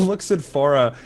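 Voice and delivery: hoarse, worn-out throat; hoarse from yelling. Real, not acted. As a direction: speak through a sore, hoarse throat. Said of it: "my throat is destroyed".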